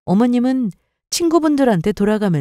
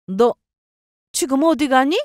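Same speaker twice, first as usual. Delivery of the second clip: higher-pitched questioning mother-in-law; lightly voiced mother-in-law; 6 semitones higher than usual. Mother-in-law stops her leaving, questioning.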